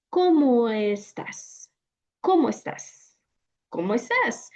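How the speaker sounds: linked vowels, demo pace; vowels combined. Shown as a demonstration. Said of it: "we're going to combine these sounds".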